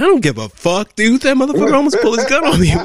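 high, loud, indignant retort; retold angry outburst. Officer rejects the excuse for a drawn gun, loudly indignant. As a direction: burst out in exasperated disbelief.

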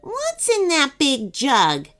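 high, drawn-out demand from the cookie; lightly rude cookie voice; abrupt question. A narrator's reading. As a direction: ask imperiously, stretching it. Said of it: "asked the cookie abruptly".

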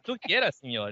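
a lightly voiced suave Spanish accent, Antonio Banderas style; mock Spanish accent. Teasing co-hosts with a Spanish heartthrob accent impression. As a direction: purr the Spanish like a movie heartthrob. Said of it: "I wanted to sound like Antonio Banderas".

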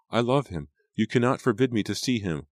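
high, forceful defiance; impassioned protest. A narrator's reading. Daughter refusing father's ban, impassioned protest.

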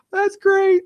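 way up high, hyped squeal; excited falsetto. Pretend. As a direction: hype the dog like a party. Hyping the Doge avatar.

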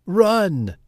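high, loud panicked cry; cry of alarm. A narrator's reading. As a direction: yell it in sudden panic. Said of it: "cried Chicken Little".

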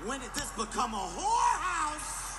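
husband demanding answers from his wife; indignant outburst. Retold or imitated. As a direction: blow up at her in disbelief.

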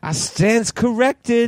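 very high, very slow mock wife; drawn-out high wife voice; man doing a woman's voice. Echoing the wife's quote.

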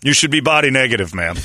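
loud teasing scold; mock heckler.

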